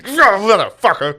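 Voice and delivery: high, drawn-out mock outburst; startled cursing. Phil's side gets grabbed, startled angry curse imitated. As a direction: curse as if grabbed from behind, hammed-up.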